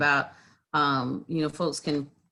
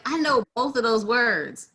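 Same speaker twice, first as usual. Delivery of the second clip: laughing; 6 semitones higher, 3 dB louder than usual. Real, not acted. Laughing at own blank.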